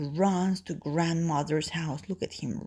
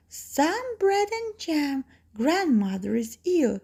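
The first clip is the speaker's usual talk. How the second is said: Little Red Riding Hood; 10 semitones higher than usual. Acted. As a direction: answer sweetly high, like a small child. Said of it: "says Little Red Riding Hood".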